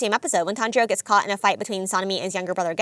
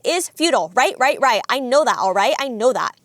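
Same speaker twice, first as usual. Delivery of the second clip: mock scream, only slightly raised; lightly acted, exasperated yelling back; retold scream; 4 dB louder than usual. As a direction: imitate a frantic scream without full volume. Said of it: "Zenitsu screams back".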